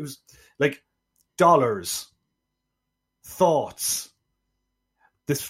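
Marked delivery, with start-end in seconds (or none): 1.3-4.1 put-on drawn-out words in a botched Southern accent; failed Southern accent. Podcaster listing an actor's mispronounced words, failed Southern accent. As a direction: mimic an actor's poor Deep South accent. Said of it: "things he couldn't say in A Deep South Accent".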